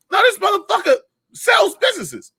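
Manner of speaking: excited emphasis. Retold or imitated. Telling the cohost the comic sells businesses, high amazed shout. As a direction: shout it in disbelief.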